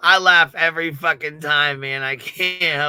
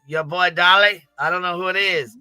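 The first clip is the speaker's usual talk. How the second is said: quoting him through a laugh; can barely get the line out for laughing; laughing while quoting. Retold or imitated. Retelling the courtroom clip, laughing through it. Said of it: "He goes".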